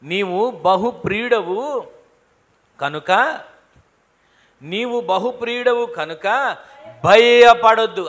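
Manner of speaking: a preacher voicing the angel's slow comfort; reassuring angel. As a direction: draw it out slowly to comfort. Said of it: "తర్వాత ఏమనుంది?".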